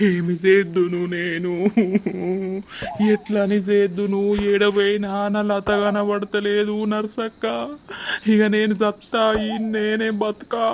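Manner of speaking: crying helplessly between phrases; tearful lament. Acted. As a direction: weep through the words. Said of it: "అయ్యో, ఏడవకురా".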